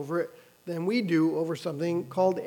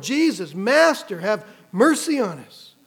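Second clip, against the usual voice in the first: mild mock call for mercy, louder on Master; retold cry; 5 dB louder than usual. Preacher voicing ignored lepers begging Jesus, retold cry. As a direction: plead aloud as someone used to being ignored. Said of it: "That's a cry you hear often".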